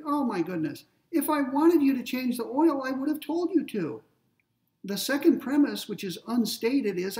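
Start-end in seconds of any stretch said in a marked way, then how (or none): 0.0-4.0 higher, louder exasperated parent. Retold or imitated. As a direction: scold the grown child in mock exasperation. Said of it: "Maybe I'm exasperated".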